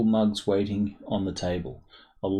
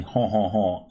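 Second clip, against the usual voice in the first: mock French accent. Shown as a demonstration. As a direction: honk honk honk as a joke French accent opener. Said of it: "I can start by saying".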